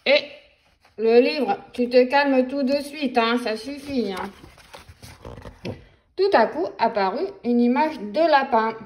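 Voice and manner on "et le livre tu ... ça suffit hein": louder, mock-stern telling off; mock scolding. Grown-up telling the book off, mock-stern and louder.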